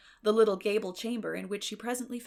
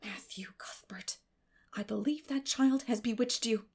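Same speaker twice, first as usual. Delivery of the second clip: hushed accusation. Acted. Marilla to Matthew, hushed and accusing. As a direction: hiss the accusation under her breath.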